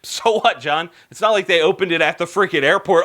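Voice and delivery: quick, offhand brush-off; dismissive viewer. Acted. Imagined viewer waves off the souvenir shop news, dismissive. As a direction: shrug it off as no big deal.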